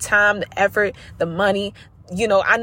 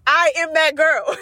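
confident affirmation; 8 semitones higher, slower than usual. Shown as a demonstration. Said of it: "You need to tell yourself that".

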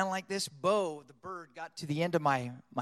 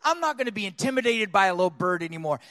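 fast, louder, defiant declaration; bold aggressiveness; 5 dB louder, faster than usual. Retold or imitated. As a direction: fire it out boldly. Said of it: "I just had this bold aggressiveness".

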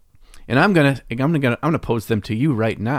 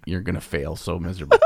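usual speaking voice

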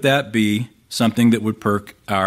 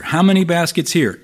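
frustrated repeat; 6 semitones higher than usual. Retold or imitated. Jesus pressing the disciples again, higher exasperated repeat. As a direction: repeat "How many baskets here?" with rising exasperation. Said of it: "You can almost hear the frustration here in Jesus' voice".

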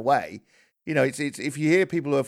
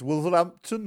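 a Yorkshireman's go at Midlands, pitched up; attempted Midlands accent; 5 semitones higher than usual. Shown as a demonstration. Host praising the West Midlands, attempted Midlands accent. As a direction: have a playful stab at Midlands accent. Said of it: "doing a Midlands accent".

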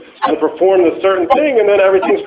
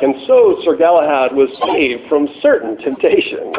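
lightly voiced film narrator, a hint of grandeur; a touch of the solemn storyteller. The film's narrator closing the scene, lightly mimicked. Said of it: "with the narrator voice going something like".

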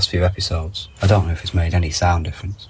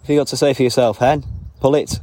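higher, playful telling-off to a hen; teasing the hens; 6 semitones higher than usual. Real, not acted. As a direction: scold the pullet in fun. Talking to hens.

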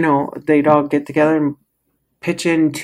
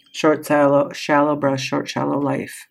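quieter and quieter to a near hush; fading mantra; 5 dB quieter than usual. Retold or imitated. Teacher's mantra on shallow living, fading softer. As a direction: let it shrink away like a shallow breath. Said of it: "As my first teacher said".

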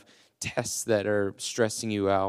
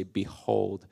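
modeled declaration; much slower than usual. Shown as a demonstration. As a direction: show them how to say it to their problems. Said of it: "look your problems square in the face and say".

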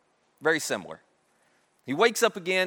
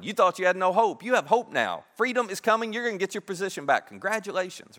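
upbeat, emphatic delivery of happy news; excited good news. Acted. Joseph tells the cupbearer his dream means freedom, excited. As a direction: act out a mildly excited messenger.

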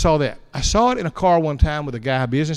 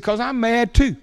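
cheerful defiance; 8 semitones higher than usual. Retold or imitated. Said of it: "He said".

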